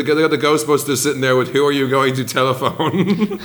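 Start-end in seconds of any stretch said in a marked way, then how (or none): 1.5-3.4 laughing. Retold or imitated. Quoting a mock Ghostbusters slogan.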